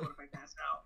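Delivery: breathy fearful whisper; whispered worry. Retold or imitated. A nervous father whispering his fear of fainting. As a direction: whisper it, unvoiced and anxious. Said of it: "I was like".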